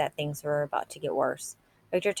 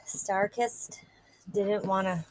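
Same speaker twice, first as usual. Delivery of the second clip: whisper; 4 semitones higher, slower than usual. Acted. Victor taunting Joey.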